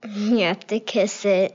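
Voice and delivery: words through a giggle; giggling. Real, not acted. Daughter teasing dad about cheek kisses, giggling. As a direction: answer while trying not to laugh.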